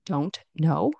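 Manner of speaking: "don't know" with the T sounded; T pronounced. Shown as a demonstration. Teacher shows learners the full form, T pronounced. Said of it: "I said don't, pronouncing the T".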